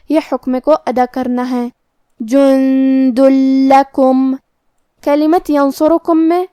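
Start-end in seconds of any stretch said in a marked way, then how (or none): 2.2-4.3 جند لکم slowly, tanween merged into a doubled لام; idgham without ghunna. Shown as a demonstration. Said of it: "تنوین کو لام میں ملا کے بغیر غنہ". (جند لکم میں ادغام بغیر غنہ)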